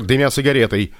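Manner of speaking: usual speaking voice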